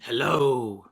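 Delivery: low, put-on hello; silly follower voice. Answering for a new Twitter follower, silly low voice.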